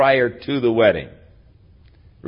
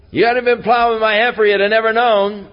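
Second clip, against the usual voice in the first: higher and louder, fast angry shout; angry outburst; 11 semitones higher, 5 dB louder than usual. Retold or imitated. Samson to the riddle guessers, angry shout. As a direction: hurl it at them like an accusation. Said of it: "And he really got angry".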